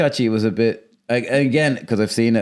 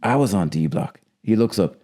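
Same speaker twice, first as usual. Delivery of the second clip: Nick Chinlund's line; 3 semitones lower than usual. Retold or imitated. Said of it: "he has this great bit".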